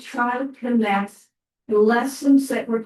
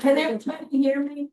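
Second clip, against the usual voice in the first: teacher voice; 5 semitones higher, much faster than usual. Shown as a demonstration. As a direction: project it like a classroom teacher. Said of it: "if I just use my teacher voice".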